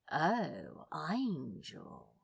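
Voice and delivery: a hint of a leer hiding a wobble; seductive leer. Crowley leering at the angel, mild seduction. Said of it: "Crowley leered, in as seductive a tone as he could muster".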